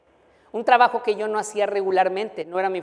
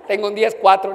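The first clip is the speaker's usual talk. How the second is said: laughing radio call; 5 dB louder than usual. Retold or imitated. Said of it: "siempre lo quise decir".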